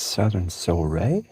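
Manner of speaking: "Soleil" said as "so-RAY"; careful name pronunciation. Shown as a demonstration. Reading a follower's accented name aloud, careful pronunciation. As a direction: say "Soleil" as so-ray, stressed at the end. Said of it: "how you would say it".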